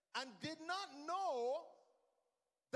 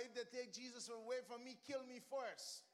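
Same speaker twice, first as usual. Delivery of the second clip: hushed vow; 5 dB quieter than usual. Real, not acted. Quiet first take of vow.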